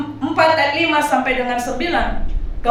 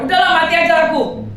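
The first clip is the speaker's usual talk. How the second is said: put-on brisk Medan-accented "Udahlah, mati aja aku" with Medan stress and tune; fed-up Jonah in Medan intonation; Medan-style quote; 4 semitones higher, faster than usual. Preacher quoting Jonah in Medan style, with Medan intonation. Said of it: "Itu bahasa Medannya, saya kasih sedikit penekanan, intonasi".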